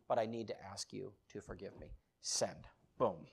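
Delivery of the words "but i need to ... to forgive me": low, soft request for forgiveness; subdued apology. Retold or imitated. Son asking his dad's forgiveness, subdued apology. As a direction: ask it humbly and quietly. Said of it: "and I said".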